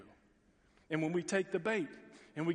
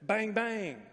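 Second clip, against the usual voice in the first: mock gunfire; 5 semitones higher, 4 dB louder than usual. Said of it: "He said".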